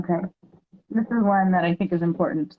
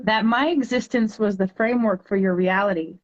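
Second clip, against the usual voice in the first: poem reading; 2 semitones higher than usual. Acted. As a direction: read it like a heartfelt poem to a child. Reads her poem aloud.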